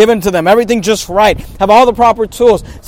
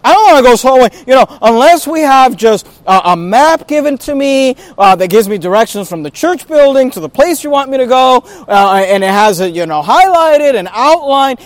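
mock reluctant churchgoer; 3 semitones higher than usual. Preacher imitating people who won't go soul winning, mock complaint. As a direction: lightly play a fussy complainer. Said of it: "some people get the idea, they're like".

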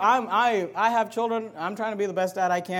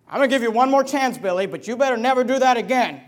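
raised-voice final warning; stern parental warning; 4 dB louder than usual. Acted. Father giving Billy one more chance, sternly. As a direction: warn a child with rising force.

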